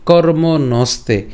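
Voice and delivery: কর্ম নস্তে slowly, split into two words; slow teacher's model of কর্ম নস্তে; pronunciation demo. Shown as a demonstration. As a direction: draw out কর্ম নস্তে with a long final e. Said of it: "এর উচ্চারণটা কেমন হচ্ছে".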